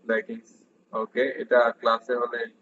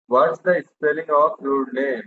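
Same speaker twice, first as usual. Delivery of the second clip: slow model question; much slower than usual. Shown as a demonstration. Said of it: "teacher models dialogue".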